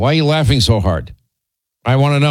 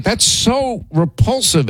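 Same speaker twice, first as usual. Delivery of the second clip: slow, much higher that's so repulsive; disgusted; 9 semitones higher, slower than usual. Retold or imitated. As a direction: drag it out in mock disgust. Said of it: "I'm like".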